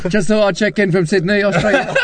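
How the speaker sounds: light mock Australian accent. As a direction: imitate his Australian reading voice. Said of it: "it's my Australian accent".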